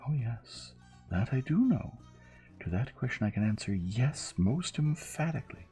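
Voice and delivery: high, emphatic French maid; vigorous French-accented yes. Acted. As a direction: affirm it eagerly, pitch climbing. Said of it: "Louise nodded her head vigorously".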